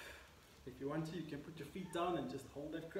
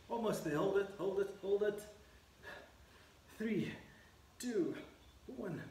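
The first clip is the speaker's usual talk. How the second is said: urgent coaching; 4 semitones higher than usual. Real, not acted. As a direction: drive them through the last seconds. Coach urging final seconds.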